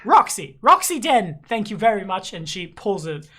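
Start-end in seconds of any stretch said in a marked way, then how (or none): 0.0-2.3 high, emphatic landlady voice; curt correction. Acted. Tavern owner correcting a rude customer, affronted. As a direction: set him straight on your name.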